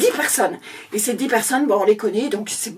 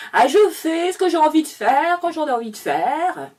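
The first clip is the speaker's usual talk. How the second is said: minister's speech redone; 5 semitones higher than usual. Acted. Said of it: "refaire le discours du monsieur".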